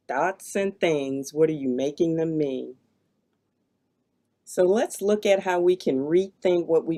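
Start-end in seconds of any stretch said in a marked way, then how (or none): 0.1-2.7 lower-pitched take. Shown as a demonstration. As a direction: let it settle low, drawing out the opening words. Same question repeated, lower take.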